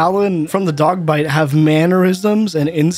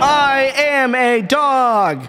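slow mock dog voice; 8 semitones higher, much slower than usual. Echoing the movie line slowly.

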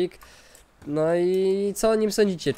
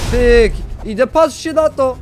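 excited; 8 semitones higher, 11 dB louder than usual. Real, not acted. Excited action.

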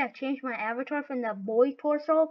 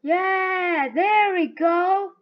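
loud, drawn-out cheer; 3 semitones higher, 4 dB louder, much slower than usual. Real, not acted. Player cheering their own success, triumphant. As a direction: celebrate it loud and slow.

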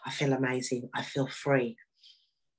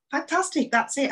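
high, bright burst of joy; delighted; 10 semitones higher, 4 dB louder than usual. Retold or imitated. Told she has a husband, she answers in high delight. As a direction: squeal it out with delight.

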